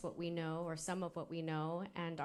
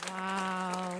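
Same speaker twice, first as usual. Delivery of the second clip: amazed wow; 7 dB louder than usual. Real, not acted. Host reacting after a moving speech.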